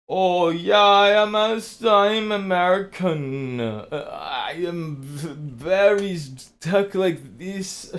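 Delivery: hammed-up fake American accent, high and slow. Mocking a faker posing as an American, hammed-up American accent. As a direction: overdo a fake American accent, dragging the words out. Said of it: "imagine somebody just pretending to be an American".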